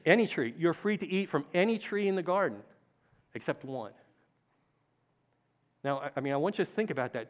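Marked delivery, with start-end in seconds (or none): 0.1-0.5 Any tree, called out loud; called out together. Shown as a demonstration. Preacher leads the crowd in a loud call-back. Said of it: "can we all say any tree". 0.6-2.6 any, lifted and stressed. Shown as a demonstration. Preacher repeats the verse, stressing any. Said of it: "can we all say any tree".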